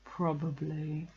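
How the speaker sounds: slow, understated gloomy reply; unimpressed. A narrator's reading. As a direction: answer slowly without enthusiasm. Eeyore damps the excitement again.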